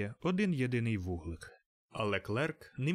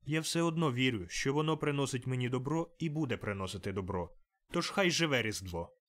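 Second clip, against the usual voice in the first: put-on earnest young nephew; 2 semitones higher than usual. Nephew defending Christmas to his uncle, fervent and earnest. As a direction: speak up for Christmas with conviction.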